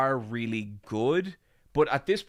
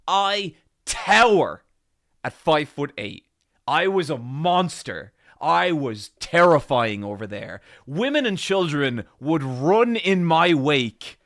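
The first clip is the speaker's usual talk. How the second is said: dark lord; 5 semitones higher, 11 dB louder, slower than usual. Acted. Grandiose boast about height.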